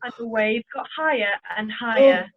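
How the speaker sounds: storybook voice building with the storm; story narration. A narrator's reading. Narrator describing the growing storm to children, building tension.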